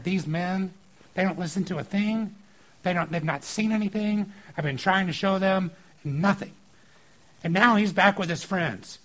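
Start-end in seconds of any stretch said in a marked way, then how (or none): 0.0-6.5 mildly frustrated acted complaint; frustrated venting. Jesus back in the boat with disciples, frustrated. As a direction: gripe with a touch of frustration. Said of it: "He is frustrated with the Pharisees".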